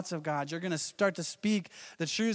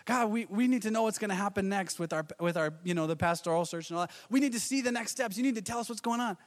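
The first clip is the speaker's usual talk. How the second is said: higher anxious plea; staff pleading with God; 3 semitones higher than usual. Retold or imitated. Church staff pleading with God about the pastoral search. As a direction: press God for the next steps. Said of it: "we're kind of in that place".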